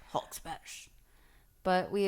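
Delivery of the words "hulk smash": very deep, slow monster growl; Hulk voice. Pretend. To her co-host, teasing her as the Hulk, deep slow growl. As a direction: play the Hulk, slow and booming low. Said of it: "She's like the Hulk".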